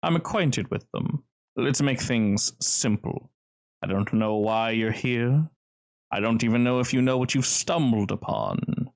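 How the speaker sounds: deliberate, decisive veiled threat; slow down for a composed warning; smooth gentleman. Acted. Cellar's host warns the intruder, slow and smoothly menacing. Game master plays smooth stranger.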